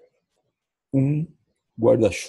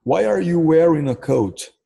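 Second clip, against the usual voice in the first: slow model sentence; 6 semitones higher, 4 dB louder, slower than usual. Shown as a demonstration. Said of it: "Em inglês se pergunta assim, ó".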